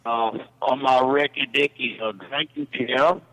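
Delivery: a light put-on British accent; lightly voiced British bloke at home. The speaker goes mock-British on the phone to the hosts, lightly done. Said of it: "Is this a British man?".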